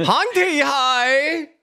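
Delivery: put-on loud, high, slow Chinese accent. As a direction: call it out slowly in a Chinese accent. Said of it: "I would do it in a Chinese accent".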